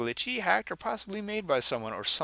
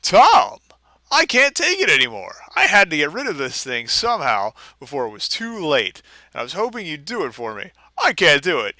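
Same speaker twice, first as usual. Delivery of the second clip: panicked, higher and louder plea; desperate note; 3 semitones higher, 6 dB louder than usual. Acted. Reader voices Kyle's frantic warning letter, pleading. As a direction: read it like a terrified friend begging. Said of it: "this is what he wrote".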